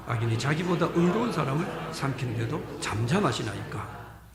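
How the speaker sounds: steady, solemn read-aloud of scripture. Real, not acted. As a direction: read the verse aloud together with the congregation. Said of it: "같이 한번 읽어봅시다".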